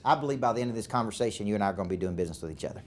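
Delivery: rattled off fast like a slick investment banker; a fast, confident sales pitch; quoting a banker's pitch, talking fast and breezy; banker's rapid pitch. Retold or imitated. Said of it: "their E O S looks like this".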